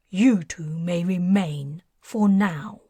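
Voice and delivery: a hint of a cold, lofty sorcerer; cold decree. Merlin to the two humans, lofty and cold. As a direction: grant them life like a bored king. Merlin grants mercy coldly.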